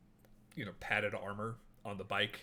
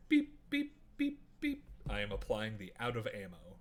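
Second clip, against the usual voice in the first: chirpy robot alarm then rules; 3 dB quieter, faster than usual. Acted. Rifle voices a warning.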